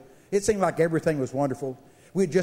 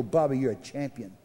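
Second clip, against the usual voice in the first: cuddling voice; 6 semitones lower, 3 dB quieter than usual. Retold or imitated. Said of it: "I thought he'd cuddle me and go".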